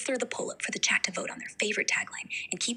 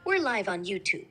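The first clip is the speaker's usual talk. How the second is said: put-on Colombian-accented English; flirty paisa accent, speaking English; English with a lilting Colombian accent; Medellín accent in English; 2 semitones lower than usual. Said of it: "Speak with an English, English but the Medellin accent".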